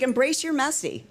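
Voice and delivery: high, emphatic retold encouragement; imitating urging director. Director urging the trainee to be real, mock insistence. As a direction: mimic an insistent director's pep talk.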